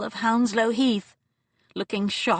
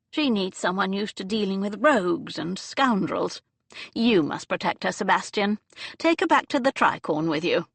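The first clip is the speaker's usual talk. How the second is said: put-on elderly Duchess. Aunt pressing Sebastian to protect Anya, lightly voiced. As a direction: sound pleased with a bold idea. Dowager scheming.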